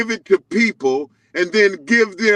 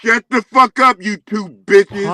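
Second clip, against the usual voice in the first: angry yelling. Real, not acted. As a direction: snap at them in anger. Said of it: "Calm down, Yusef".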